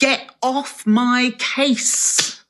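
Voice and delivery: very slow, very loud, drawn-out delivery. Speaker recounting how they answer constant texts checking on them, retelling a loud retort.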